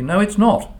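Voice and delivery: imitating a child's stern rebuttal, opening high; mildly stern contradiction, high at first then settling; stern reply. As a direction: retell a youngster firmly setting someone straight. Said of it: "Samuel replied sternly".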